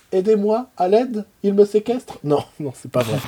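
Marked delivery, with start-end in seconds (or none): 0.1-2.2 muffled through tape on the mouth; gagged, higher-pitched cry for help; mouth taped shut. Pretend. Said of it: "Elle a du scotch sur la bouche, elle peut pas parler".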